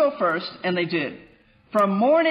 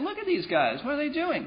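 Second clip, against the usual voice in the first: laughing, soft, sing-song mocking sarcasm; 6 semitones higher, 5 dB quieter than usual. Picturing the watcher leaning against a tree, acting out sarcastic mockery. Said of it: "he's laughing to himself because he begins to mock them with sarcasm".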